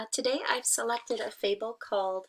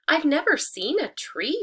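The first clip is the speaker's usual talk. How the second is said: higher, louder suspicious hen; 8 semitones higher, 7 dB louder than usual. Acted. Hen growing suspicious of the tree, sharp and high. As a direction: question it sharply. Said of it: "she said".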